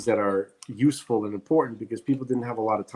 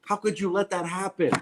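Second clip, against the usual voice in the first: higher-pitched, drawn-out indignant reproach; judgmental; 5 semitones higher, slower than usual. Real, not acted. Podcaster berating parents for handing their kids to other adults, judgmental. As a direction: scold parents in slow, emphatic disbelief. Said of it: "I'm sounding like I'm very judgmental".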